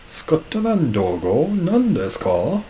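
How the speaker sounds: high, slow, baffled question; slow, high mock-confused foreigner asking back; mock puzzled Japanese listener.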